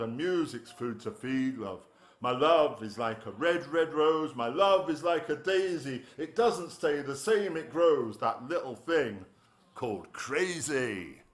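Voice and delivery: gentler closing verse, slowing at the end; poem recital. Acted. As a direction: ease the poem to a tender close. Finishing the love poem.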